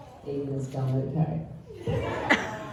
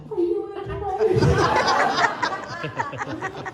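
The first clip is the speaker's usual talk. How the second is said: put-on gentle child voice. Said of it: "she'd be like".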